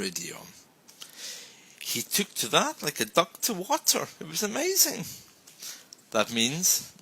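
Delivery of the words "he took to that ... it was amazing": enthusiastic praise. Shown as a demonstration.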